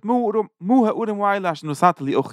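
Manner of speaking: high, exaggerated grumbling sounds as Chiram; mock grumble. Chiram grumbling to Shlomo about the towns, mock-grumbled high. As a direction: grumble high and disgruntled like a displeased king. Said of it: "er sagt".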